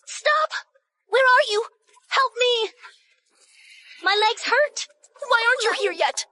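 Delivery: put-on a frightened girl calling for someone who isn't there. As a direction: call out into the dark, scared. Lost girl calling out for help.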